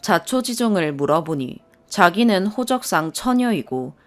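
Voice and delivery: ordinary delivery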